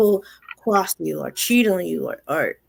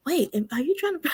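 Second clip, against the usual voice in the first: laughing disbelief; 6 semitones higher, 7 dB quieter than usual. Retold or imitated. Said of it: "So I'm like".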